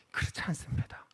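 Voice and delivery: a hushed, breathless no; whispered denial. Real, not acted. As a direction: drop to a whisper to deny it. Firm denial. (속삭이듯 부정하며)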